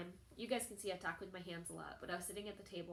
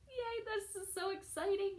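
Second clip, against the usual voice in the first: high, louder burst of glee; squealed yay, pitched way up; retold excitement; 12 semitones higher, 5 dB louder than usual. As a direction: re-enact a happy little cheer. Retelling her reaction to good news.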